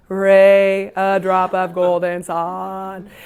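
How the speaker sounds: slow, hoarse, broken singing; a sick teacher barely singing; failing voice. Retold or imitated. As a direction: sing with a voice that is giving out. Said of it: "he couldn't sing".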